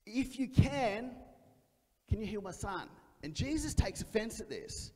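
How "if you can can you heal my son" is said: a hint of a doubting dad; pleading father. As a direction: ask it hesitantly, half doubting.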